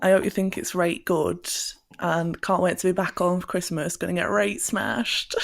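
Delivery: broad northern English, at home; northern accent. Shown as a demonstration. Telling Dad about coming home for Christmas, northern accent. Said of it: "enthusiastic northern accent".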